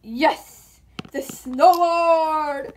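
slow, loud, savoring snowboard; triumphant gloat. Pretend. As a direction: drag out snowboard with relish. Hero triumphantly brandishing snowboard.

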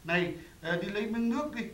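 high, loud imitation of a wife's order; bossy wife. Husband imitates his wife sending him for water, high and bossy. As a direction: mimic her ordering him about. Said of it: "nó bảo".

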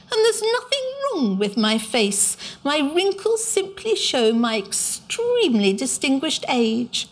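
high, huffy creature voice; a lightly voiced indignant old creature; cross Psammead. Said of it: "very crossly indeed".

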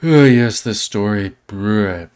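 loud mock-sarcastic "oh yes"; sarcastic bored reader. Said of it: "it makes him feel like".

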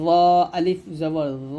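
final ল full and rounded, held long; thick, heavy letter. Shown as a demonstration. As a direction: say ল heavy, back in the mouth, and stretch it. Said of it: "মোটা করে উচ্চারণ করতে হবে".

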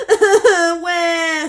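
high, loud echoing call; echoed call. A narrator's reading. The echo calling back from across the pond, loud high call. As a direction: throw the word back like an echo. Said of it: "said the voice from across the pond".

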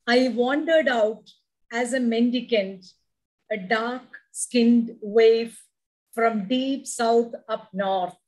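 slow, deliberate poetic reading; poem recitation. Acted. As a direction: savour each line of the poem.

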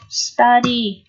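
"study" with the U as a short ah; "study" said alone, first vowel an ah; pronunciation demo. Shown as a demonstration. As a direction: model "study" for learners, vowel like á. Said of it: "chữ U này được phát âm là âm Á".

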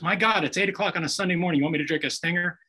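can't believe the offer, quick at the end; incredulous. Retold or imitated. Dad shocked at morning drink offer.

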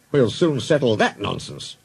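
understated grim determination; grim resolve. Acted. Boss setting off to settle nonsense, grim. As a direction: say it with a touch of grimness. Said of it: "he said grimly".

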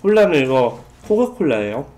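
chewing while talking; talking between bites; mouth full of bread. Real, not acted. Seen 2: Bites bread at -1.0; talks with food in mouth, bread in hand.

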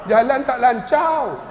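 lambat, loghat Melaka sambil ketawa. Retold or imitated. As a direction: sebut "lancau" ala pakcik Melaka. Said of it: "bahasa orang Melaka". (pakcik Melaka jelaskan jalan tak sesak)

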